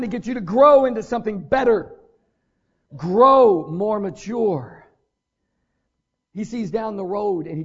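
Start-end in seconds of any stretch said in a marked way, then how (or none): 3.0-4.8 each word slow and louder; slow emphasis. Real, not acted. Preacher drives home God's aim for us, slow and loud. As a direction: lean on every word, drawn out.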